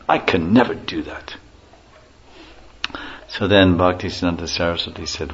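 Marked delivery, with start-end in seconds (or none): 0.1-1.3 whispered aside. Retold or imitated. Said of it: "in his best British accent".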